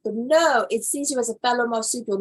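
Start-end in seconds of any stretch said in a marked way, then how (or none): 0.0-0.7 rising into an excited near-yell; driving the point harder and harder; half-yelling out of sheer disbelief; getting worked up. Real, not acted. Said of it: "Why am I yelling?".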